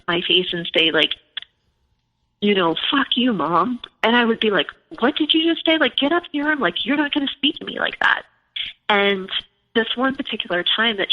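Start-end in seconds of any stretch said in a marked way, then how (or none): 2.9-3.8 mildly acted defiance, a little higher; retold insolence at usual volume; back-talking teen. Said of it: "getting really back-talky". 5.0-8.2 high-pitched outraged mom, not shouted; retold parental telling-off, pitched way up; indignant scolding. Mother retells scolding her daughter.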